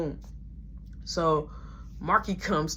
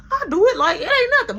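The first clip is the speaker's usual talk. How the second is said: laughing; 7 dB louder, faster than usual. Retold or imitated. Bragging, laughing.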